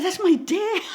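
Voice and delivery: high laughing reveal; giggling confession; laughing admission. Retold or imitated. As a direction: blurt it out through laughter. Confessing whose car it is.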